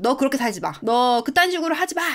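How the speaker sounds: mildly angry scolding, rising in pitch; mock drunken anger. Drunk husband lashing out at his wife, mock angry. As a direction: act out a husband's clumsy angry outburst. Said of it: "막 화를 내면서".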